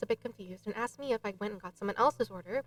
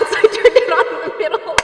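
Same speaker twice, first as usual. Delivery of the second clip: laughing; 7 semitones higher, 10 dB louder than usual. Real, not acted. Laughing at forgetting the echo.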